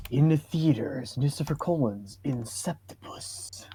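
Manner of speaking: whispered mock trailer voice; breathy fake trailer tease; movie trailer whisper. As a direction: hush it like a teaser ad.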